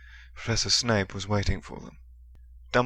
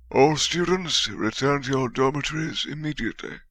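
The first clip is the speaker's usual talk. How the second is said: commanding call; 6 semitones higher than usual. A narrator's reading. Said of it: "came Professor Dumbledore's voice".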